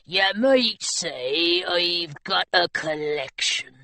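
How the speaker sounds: low, slow sly pirate; menacing pirate. Acted. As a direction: savour the threat. Pirate grinning, threatening.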